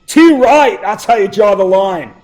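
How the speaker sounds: hammed-up Australian accent; bad Australian accent. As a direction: put on a rough attempt at Australian. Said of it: "to quote Australian people".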